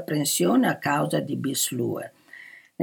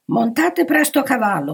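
loud, high-pitched order; unceremonious command; 7 semitones higher, 6 dB louder than usual. A narrator's reading. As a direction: command them without ceremony. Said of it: "comandò il duca senza cerimonie". (comando secco e senza cerimonie)

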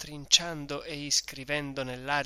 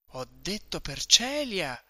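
shouted; 5 semitones higher, 3 dB louder than usual. Acted. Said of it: "gridò questo sul viso di Renzo".

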